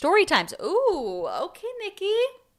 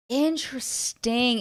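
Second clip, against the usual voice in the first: slow, stretched musing interesting; drawn-out interesting; 3 semitones higher, much slower than usual. Real, not acted. Musing over Nikki's post, slow and drawn out. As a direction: savor the word, slowly.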